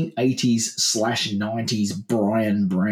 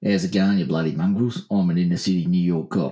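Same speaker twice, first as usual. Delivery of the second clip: lower-pitched Australian actor playing a New York cop; low, lightly voiced tough-cop impression; Brian Brown; 6 semitones lower, faster than usual. Shown as a demonstration. Demonstrating an inner city New York cop for co-host, low impression. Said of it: "Do you wanna hear me do that one?".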